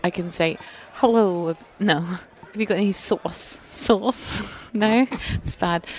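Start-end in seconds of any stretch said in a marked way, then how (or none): 0.9-1.6 American accent attempt. Shown as a demonstration. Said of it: "your lesson where you practice your American accent". 2.0-4.7 faltering try at a New York accent; New York accent attempt. Shown as a demonstration. Englishwoman asked to do New York, tentative accent attempt. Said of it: "can you do New York?".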